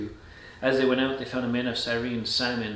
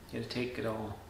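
solemn reflection; 8 dB quieter than usual. Real, not acted. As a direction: let it sink softly, weighing each phrase.

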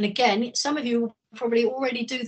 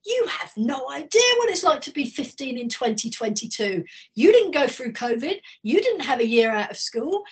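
put-on teen's retort; 4 semitones higher, 3 dB louder than usual. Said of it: "my partner said to them".

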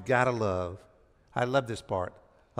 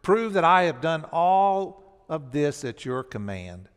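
earnest prayer; 3 dB louder than usual. Retold or imitated. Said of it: "he prayed".

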